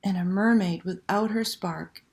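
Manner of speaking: put-on lively read-aloud to children; storyteller voice for kids; story narration. A narrator's reading. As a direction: tell it like a bedtime picture book, full of suspense. Reads picture book aloud.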